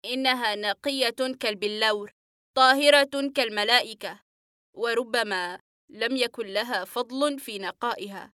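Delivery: patient speaks lovingly of his sister; tender smile. Acted. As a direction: speak of her with a gentle smile. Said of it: "وابتسامة فيها حنان كبير".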